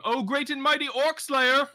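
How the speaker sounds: high, loud mock-adoring cry; hammed-up scream. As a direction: hail a hero at the top of your voice. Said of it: "run towards him and scream".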